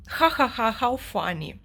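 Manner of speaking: loud mock "Ha ha ha" then a dry sneer; mean fake laugh, then sarcastic comment; mocking laughter. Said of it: "she and Linton laughed at".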